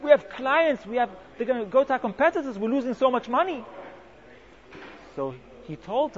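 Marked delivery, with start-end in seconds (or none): 0.0-3.6 mock shout. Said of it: "she shouts at him".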